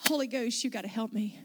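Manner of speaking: softly retold prayer for help; quiet plea. Pastor asking the Holy Ghost for help, softly. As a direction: plead under your breath.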